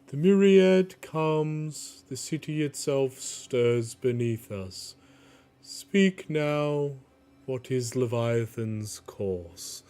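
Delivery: slow, commanding herald voice; Bosun's booming call. Acted. Pirate herald calls the captains to order, slow and commanding. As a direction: bang the staff and call the council to order. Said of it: "he says".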